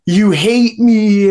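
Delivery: retold wail without real sobs; imitated tearful wail. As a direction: lightly imitate a crying date, drawn out. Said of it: "she starts crying and crying".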